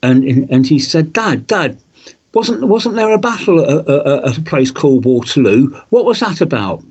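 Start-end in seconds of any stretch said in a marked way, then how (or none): 1.1-6.8 put-on a Liverpool kid's voice, pitched higher, asking his dad; light Scouse accent for an eager boy; half-hearted Merseyside accent, admittedly not quite right. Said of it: "I know I can't do the accent".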